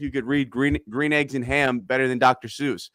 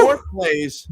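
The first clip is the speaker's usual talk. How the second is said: excited; 3 dB louder than usual. Real, not acted. Excited recap of touchdown drive.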